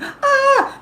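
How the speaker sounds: high-pitched "ah" of someone freaking out; short hammed-up wail; mock panicked cry. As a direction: let out a pretend panic yelp. Acted freak-out over money, friendships.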